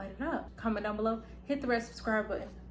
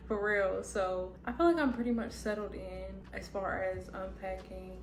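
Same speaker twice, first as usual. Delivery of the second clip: talking with retainers in, lisp; slight lisp from retainers. Real, not acted. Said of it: "I have my retainers in, so if you hear, like, a little lisp".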